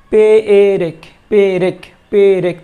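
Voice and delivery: পে এ রেক spelled out loud, syllable by syllable; drawn-out demo. Shown as a demonstration. Teacher repeating the changed word loudly for students. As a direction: stretch পে রেক so the moved এ is heard. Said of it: "র এর আগে চলে আসছে".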